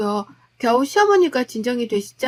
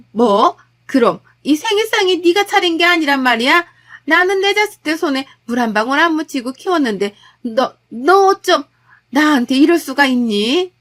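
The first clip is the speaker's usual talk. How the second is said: outraged; 3 semitones higher, 5 dB louder than usual. Acted. Mother-in-law outraged at the truth.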